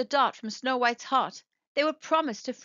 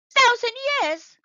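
high, loud shocked howl; howling in dismay; 13 semitones higher, 8 dB louder than usual. A narrator's reading. The robots hear the curse lasts a thousand years, howling in shock. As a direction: howl it out in disbelief. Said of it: "howled Squeaky".

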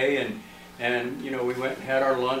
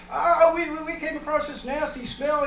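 imitated alarmed report; 14 semitones higher than usual. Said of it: "he gets on the radio".

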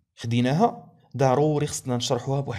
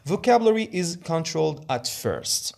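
Vocabulary is controlled at first read very slowly and higher, word by word; slow, deliberate read stressing vocabulary; slow slide read; 4 semitones higher, much slower than usual. Shown as a demonstration. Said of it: "teacher reads slide point aloud".

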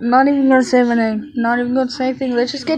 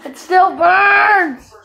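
pained laugh; much slower than usual. Real, not acted. Pepper still burning.

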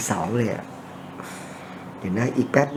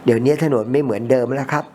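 usual speaking voice

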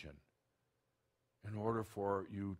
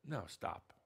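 blunt direct; 4 dB quieter than usual. Real, not acted. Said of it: "I told you it's gonna be more direct".

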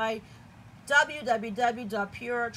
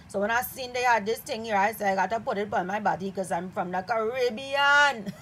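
lightly put-on Trinidadian accent; Trini accent. Shown as a demonstration. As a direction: try out a playful little Trini accent. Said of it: "trying to do my little Trini accent".

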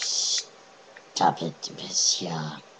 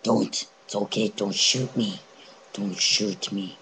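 panicked pleading; 7 dB louder than usual. Real, not acted.

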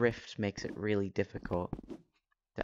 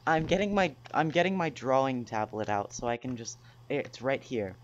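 robot voice. Acted. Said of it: "That's intentional".

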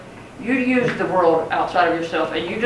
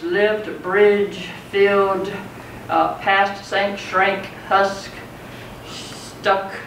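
each word set apart and leaned on; stressed end words; much slower than usual. Shown as a demonstration. Teacher listing the near-rhyme end words, each word leaned on. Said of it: "but it near rhymes".

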